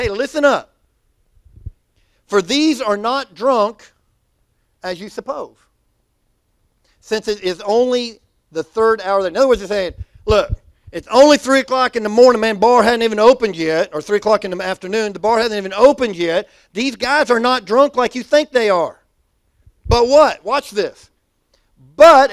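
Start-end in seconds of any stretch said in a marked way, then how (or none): 0.0-20.4 street-style Peter. Retold or imitated. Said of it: "And they said". 22.0-22.3 loud call for the crowd to repeat; call to congregation. Shown as a demonstration. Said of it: "everybody say".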